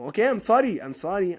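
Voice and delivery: high, loud playful sorry; teasing the class with a loud sorry; loud mock apology. Real, not acted. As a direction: shout the apology in fun.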